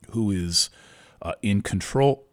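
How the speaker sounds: speaking through hiccups; hiccuping between the words. Real, not acted. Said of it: "I'm hiccuping".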